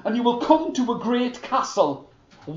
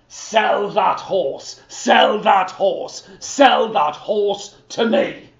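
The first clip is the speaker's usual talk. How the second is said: slow, insistent, slightly louder sell that horse; greedy demand; 5 dB louder, slower than usual. Acted. The king greedily demands Niels sell him the horse, slow and insistent. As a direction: want it badly.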